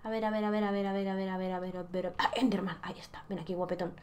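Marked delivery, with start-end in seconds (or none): 1.1-3.9 whisper. Real, not acted. Luring enderman in whisper.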